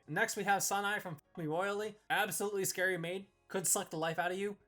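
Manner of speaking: normal talking voice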